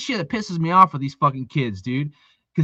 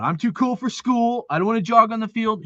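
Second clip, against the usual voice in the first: higher-pitched mock of a lazy player; mocking too-cool kid; 6 semitones higher than usual. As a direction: mimic the kid's attitude with scorn. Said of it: "Another one".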